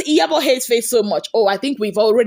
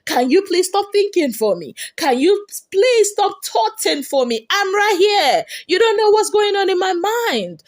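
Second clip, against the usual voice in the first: higher, exasperated mock plea; mimicking Faith; 8 semitones higher than usual. Recapping a reality show, voicing Faith asking to stop, higher and exasperated. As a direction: play Faith pleading to be left alone, pitched up. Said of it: "And Faith was like".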